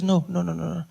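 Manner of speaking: soft, trailing imitation of mom; gently quiet the child down; hushing mother. Wounded mother calming her son, softly hushing. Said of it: "And she says".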